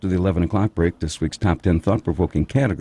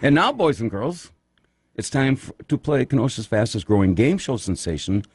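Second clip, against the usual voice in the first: put-on booming kids show opener; 3 semitones higher than usual. Game show intro announcement.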